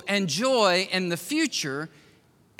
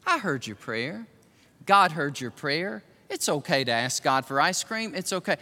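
voice of truth; 4 semitones lower than usual. Shown as a demonstration. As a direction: speak it gently, like a kind elder. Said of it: "voice of truth that sounds something like".

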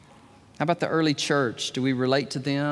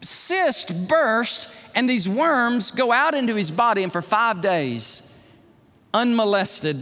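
dramatic sermon telling; slower than usual. Acted. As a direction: preach the gruesome death, sinking toward the end. Dramatic preaching of Herod's death.

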